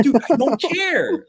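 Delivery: high and slow mock dismissal, laughing; laughing scoff. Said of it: "I'm like".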